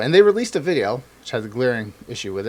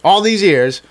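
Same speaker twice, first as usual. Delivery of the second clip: louder, higher mock outrage of an angry base; 3 semitones higher, 5 dB louder than usual. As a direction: voice the base's outrage. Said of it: "everyone is like".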